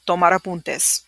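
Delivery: "tomar apuntes" run quickly together; fast. Shown as a demonstration. Teacher showing the fast version, quick. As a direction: say it at speed. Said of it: "And then fast would be".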